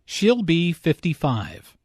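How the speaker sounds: "fifty-five" given the main weight, falling at the end; stress on "fifty-five". Shown as a demonstration. Teacher answering how old she is, stress on "fifty-five". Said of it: "fifty-five is stressed here".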